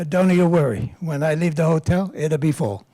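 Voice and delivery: mock Italian accent, lightly done; a hint of comic Italian accent; bad Italian accent. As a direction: do Chico's hammy Italian-English. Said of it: "bad Italian accent".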